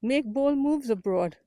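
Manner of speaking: slow, proud announcement of the tagline; slow tagline reveal. Shown as a demonstration. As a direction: unveil it slowly, word by word. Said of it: "I suddenly got the aha moment".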